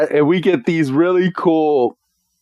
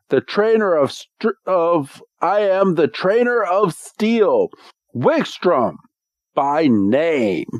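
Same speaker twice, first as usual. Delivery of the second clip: a higher, lightly voiced proud knight; lordly knight voice; 4 semitones higher than usual. Retelling the episode, Wickstrom introduces himself in a high formal voice. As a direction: pitch it higher, grand and formal. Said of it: "And he's like".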